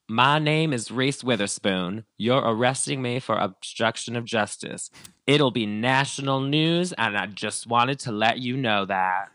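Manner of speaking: grand mock Reese. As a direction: announce your fame slowly as a threat. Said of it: "she goes".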